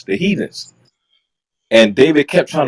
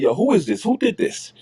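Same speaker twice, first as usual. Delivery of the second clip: retold outburst, pitched up high; mock angry king; 7 semitones higher than usual. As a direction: play David demanding a name, hot and sharp. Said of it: "So David is mad, he's pissed off".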